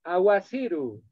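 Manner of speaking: aguaciru said slowly, "a-wa-sí-ru"; slow down and lay out aguaciru; Aymara-style aguaciru. Shown as a demonstration. Teacher showing students how some villages say rain. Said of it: "lamentablemente dicen".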